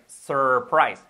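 "surprise" with the first syllable as English "sər"; U apenas audible. Shown as a demonstration. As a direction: melt the U of "surprise" into the R. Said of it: "Fijaros que suena muy poco a U". ("surprise" con muy poca U)

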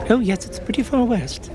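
slow, fussy English professor voice. Acted. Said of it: "said the professor".

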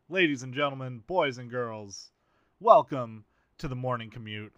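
put-on booming ringmaster welcome, slowing on boys and girls. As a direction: announce it to the big top. Grand showman welcome to viewers.

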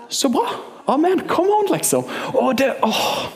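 high, bright bursts of joy; preacher's joyful amen and come on; excited exclamation. Real, not acted.

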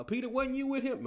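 high-pitched accuser calling Peter out; mock bystander's high challenge; accusing onlooker. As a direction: put the question in a high, pointed voice. Accuser questioning Peter in retold story.

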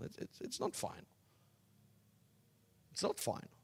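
whispered insistence; hushed. Acted. Preacher to congregation, whispering it's not final. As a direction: drop to a breathy whisper to drive it home.

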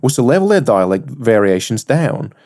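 reading aloud in a shaky attempt at Australian; bad Australian accent. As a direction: article read in a clumsy Australian accent. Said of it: "I know that was bad".

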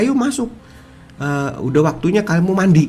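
high-pitched mock mum calling a child in; mother calling child. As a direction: imitate a mother summoning her kid to bath. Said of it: "dipanggil sama mamanya".

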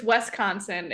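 "Wisconsin" in a plain Illinois-y way; understated Illinois accent on "Wisconsin"; Illinois-style pronunciation. Shown as a demonstration. Guest showing the Illinois way of saying Wisconsin, understated accent. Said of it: "Illinois-y way of saying it".

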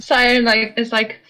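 half choking on water, laughing; swallowed wrong way. Pretend. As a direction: splutter through the words. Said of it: "Half choking on the water".

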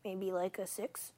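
little sweet worn-out voice; sweet hungover voice. Real, not acted. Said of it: "She sounds so sweet".

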